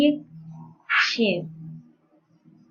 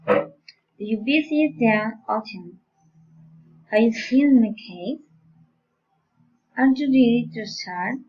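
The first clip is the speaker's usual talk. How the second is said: general questions lifted at the end; rising question intonation. Shown as a demonstration. Teacher modelling general questions for learners, rising intonation. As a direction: raise the pitch on "case" and "start". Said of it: "rising intonation".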